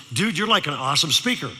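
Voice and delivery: lightly mimicked Valley dude; Valley teenager. Sophomore compliments the speaker, light Valley-kid imitation. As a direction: imitate an impressed Southern California Valley teen. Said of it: "you know how they talk".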